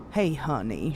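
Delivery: a lightly voiced Southern Belle greeting; hint of a Southern Belle accent. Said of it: "Southern Belle style accent".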